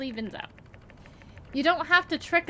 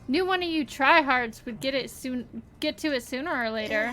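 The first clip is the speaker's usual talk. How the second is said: put-on folksy country accent. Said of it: "I just had an accent all of a sudden".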